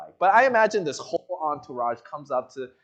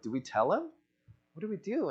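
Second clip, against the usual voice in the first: hushed servants; 9 dB quieter than usual. Retold or imitated. Servants huddling, unsure of Naaman.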